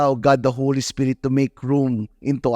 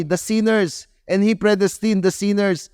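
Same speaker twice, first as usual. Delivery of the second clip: rising preaching; 6 semitones higher than usual. Real, not acted.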